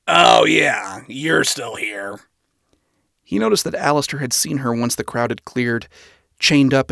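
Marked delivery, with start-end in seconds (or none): 0.1-2.2 disdainful. Acted. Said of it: "looked down at her with disdain".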